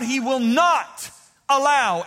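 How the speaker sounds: "allow" drawn out slowly after a pressed "not"; stress on allow. Shown as a demonstration. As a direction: lean on "not allow", slow and heavy. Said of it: "everybody shout the word allow".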